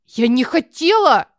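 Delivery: put-on loud, slow childish protest; a little girl stamping her foot in denial. Alisa protests to mom, stamping, loud denial. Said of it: "топает ножкой".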